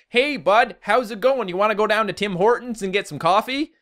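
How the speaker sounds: high, hammed-up Canadian accent; stereotypical Canadian accent. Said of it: "stereotypical Canadian accent".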